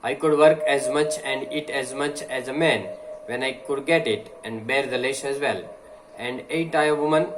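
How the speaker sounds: slow, deliberate oratory reading; slow speech reading. Acted. Teacher reading a speech to the class, slow and deliberate. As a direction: read each phrase slowly, like a speech.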